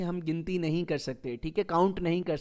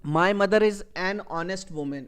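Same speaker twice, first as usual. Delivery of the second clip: slow correct example; much slower than usual. Shown as a demonstration. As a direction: read slowly and clearly, linking "an honest". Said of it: "یہ sentence صحیح ہے". (صحیح جملہ، آہستہ اور صاف "an honest")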